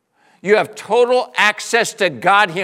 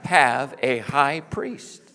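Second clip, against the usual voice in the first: call and response slow; 4 semitones lower, much slower than usual. Shown as a demonstration. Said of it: "Can you say that with me?".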